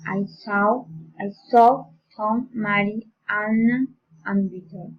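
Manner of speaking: listing with small lifts, last item down; rising list intonation. Shown as a demonstration. Teacher modelling enumeration for learners, rising list intonation. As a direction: lift "One", "bread", "Tom", then settle on the last item. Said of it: "rising intonation".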